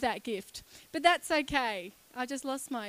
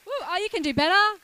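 louder, faster, egging the audience on; hyping up the crowd; 4 semitones higher, 6 dB louder, faster than usual. Real, not acted. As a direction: call out to get more cheers.

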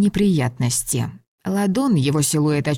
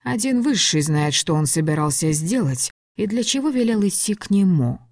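ordinary delivery

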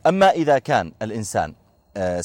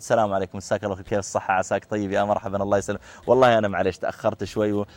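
soft, courteous, lower voice; polite gentle greeting; 4 semitones lower, 3 dB quieter than usual. Retold or imitated. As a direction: greet the clerk kindly and apologetically. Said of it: "فأتيت بأسلوب مناسب". (تحية مهذبة بصوت هادئ لطيف)

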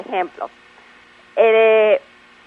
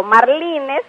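"marlines" with LI as the strong syllable; stress on LI; 5 semitones higher than usual. Shown as a demonstration. Expert justifying the pronunciation, middle-stressed "marlines". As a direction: lean on the middle of "marlines", mar-LI-nes. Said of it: "con el énfasis en la sílaba li".

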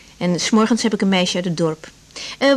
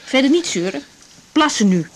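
stern; 3 semitones higher than usual. Acted. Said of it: "Wat ben je zalig streng".

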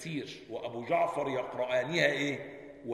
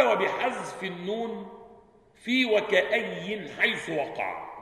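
slow quoted reading; 4 semitones higher, slower than usual. Shown as a demonstration. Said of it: "قال".

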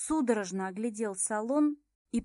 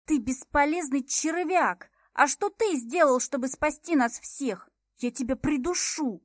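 hissing rage; 4 semitones higher, 5 dB louder than usual. A narrator's reading. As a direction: choke him with your words. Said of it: "Прошипела в ухо".

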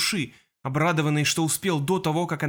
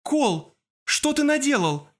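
horrified outcry; 11 semitones higher, slower than usual. Acted. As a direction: cry out in shock at what he did. Horrified cry at Kol.

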